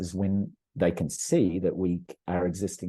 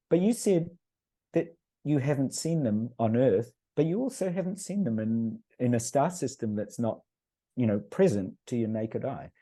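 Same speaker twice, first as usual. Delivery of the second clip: imitating his young daughter; 5 semitones higher than usual. Daughter rebutting mother.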